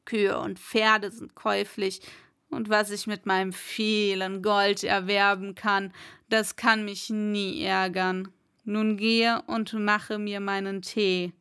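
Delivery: lightly voiced haughty lord; a touch low, lordly and dismissive; überheblicher Schlossherr. Lord boasts, gives order. (leicht angedeuteter überheblicher Schlossherr)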